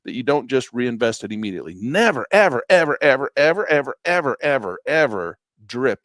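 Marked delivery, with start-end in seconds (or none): 1.8-6.0 emphatic repeated never. Real, not acted. Emphatic warning to students.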